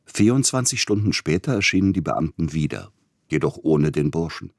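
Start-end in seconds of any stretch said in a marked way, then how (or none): none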